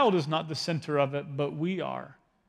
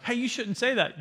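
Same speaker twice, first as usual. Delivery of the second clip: higher, mock-stern parent voice; mock scolding parent; 6 semitones higher than usual. Parent scolding a child, in a high mock-stern voice. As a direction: play the parent catching a child's bad words.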